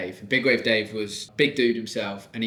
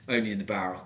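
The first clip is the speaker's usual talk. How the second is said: deadpan; 4 semitones lower, 4 dB quieter, faster than usual. Retold or imitated.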